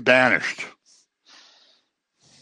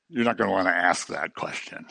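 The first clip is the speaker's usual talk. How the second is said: unvoiced hushed aside, softer and lower; whisper; 7 semitones lower, 8 dB quieter than usual. Real, not acted. Preacher whispering a pointed aside to the congregation. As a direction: lean in and whisper it to the room.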